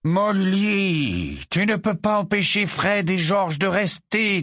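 tired, patient objection; wearily. A narrator's reading. Husband reasons with his wife, weary. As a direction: sigh it out, worn down. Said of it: "d'un ton las".

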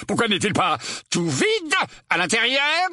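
high-pitched baffled challenge; indignant exclamation. A narrator's reading. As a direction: press the question indignantly. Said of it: "s'exclama l'oncle Vernon". (question indignée, voix aiguë)

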